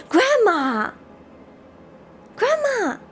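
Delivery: high shocked cry; appalled exclamation; shocked call. Real, not acted. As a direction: gasp it out in disbelief. Reacting to funeral box.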